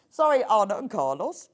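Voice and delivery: amused sorry, laughter breaking in; laughing apology. Real, not acted. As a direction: apologise through giggles. Laughing apology over accent.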